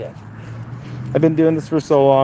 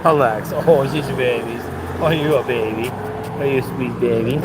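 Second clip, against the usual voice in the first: cooing to a dog. Real, not acted. Fussing over his dog.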